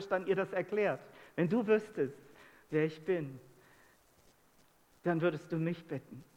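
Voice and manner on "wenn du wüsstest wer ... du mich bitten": lower, gentle quote with tender pauses; imitating a kind, patient teacher's voice; very loving. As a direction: explain it lovingly, in no hurry. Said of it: "dass er das sehr liebevoll gesagt hat".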